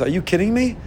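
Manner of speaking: upbeat good inclination. Acted. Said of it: "Yetzer Hatov says".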